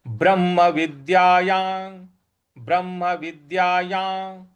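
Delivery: ब्रह्म विद्यायां with doubled म and clear या; careful recitation. Shown as a demonstration. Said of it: "इस प्रकार से हम इसका उच्चारण".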